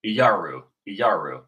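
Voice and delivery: Iyaru said as "ee-YAR-oo"; today's pronunciation. Shown as a demonstration. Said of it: "how are they pronouncing it today".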